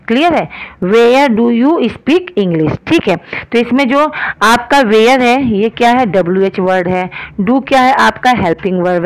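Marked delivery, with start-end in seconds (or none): 0.8-2.8 very slow, word-by-word English sentence; slow dictation. Shown as a demonstration. Teacher to class, dictating the question word by word, very slow. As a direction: spell it out slowly for students. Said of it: "teacher dictating sentence".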